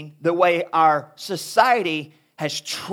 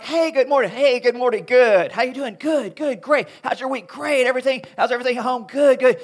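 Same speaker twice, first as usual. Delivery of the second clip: bright, upbeat greetings, higher and brisk; cheery church small talk; 4 semitones higher than usual. Retold or imitated. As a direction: chirp fake-happy hellos in the church lobby. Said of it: "This is church speak".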